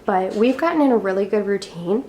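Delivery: slightly winded while talking; out of breath. Real, not acted. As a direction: speak a little short of breath. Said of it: "I'm sorry if I'm out of breath".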